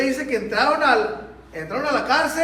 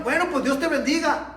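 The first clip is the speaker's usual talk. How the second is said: sarcastic blessing; 3 semitones higher than usual. Retold or imitated. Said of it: "Cuando se enojan".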